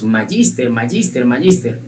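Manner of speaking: lightly mocking posh "magíster" with English g; mock sophisticated. Teacher mildly mocking people who say "magíster" to sound fancy. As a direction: mildly parody people trying to sound refined. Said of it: "como finos, sofisticados".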